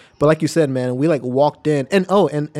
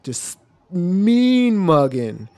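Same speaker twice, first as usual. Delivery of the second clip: plain; 4 semitones higher, much slower than usual. Shown as a demonstration. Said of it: "repeats phrase slowly".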